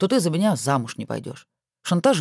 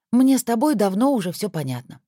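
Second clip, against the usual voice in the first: resigned; 5 semitones higher than usual. Acted. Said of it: "обречённо сказала Александра".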